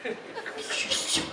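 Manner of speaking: flat, awkward, laughing insults; half-hearted dirty talk. Retold or imitated. Obliging the hookup, awkward half-hearted dirty talk. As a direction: fake it badly and awkwardly. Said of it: "And I was like".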